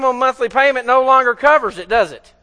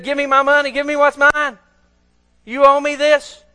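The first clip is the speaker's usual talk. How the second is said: higher-pitched, insistent demand; acted demand; 4 semitones higher, 3 dB louder than usual. Slave confronts his debtor over money, demanding. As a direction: press for the money, slowing on the last words.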